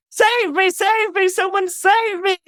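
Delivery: high, loud pleading screams; desperate cry for help. Acted. The dying queen calling the citizens to rescue her, screaming. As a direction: beg the crowd to save you. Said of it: "she cries out".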